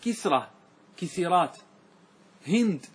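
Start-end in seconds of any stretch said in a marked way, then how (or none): 1.0-1.6 كسيرات as ki-si-rat; three syllables in كسيرات, "i" twice; kasra echoed. Shown as a demonstration. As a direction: copy the "i" onto the س in كسيرات. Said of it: "مثال الكسرة".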